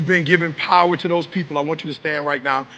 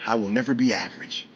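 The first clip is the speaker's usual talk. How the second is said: softer, lower, limp mumble of the line; mock half-hearted; 7 semitones lower, 7 dB quieter than usual. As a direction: imitate the crowd's weak effort. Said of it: "some of you saying it average".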